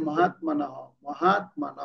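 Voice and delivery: মহাত্মানঃ with only a light h at the end; half h ending. Shown as a demonstration. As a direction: cut short the final h of মহাত্মানঃ. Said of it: "হ উচ্চারণকে অর্ধেক হবে". (মহাত্মানঃ শেষে অর্ধেক হ)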